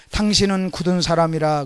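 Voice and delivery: a touch of a resentful servant; low, firm accusation to his master; lightly voiced accuser. Servant accusing his master, a mild low accusing voice. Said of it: "그 사람의 말을 들어보니 이렇게 해요".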